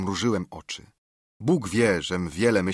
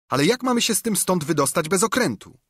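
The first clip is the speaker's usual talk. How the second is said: angry challenge; 10 semitones higher, 4 dB louder, faster than usual. Acted. George challenging Silver.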